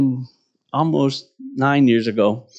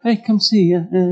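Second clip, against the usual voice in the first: casual, underwhelmed. Pretend. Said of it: "I don't think it was a".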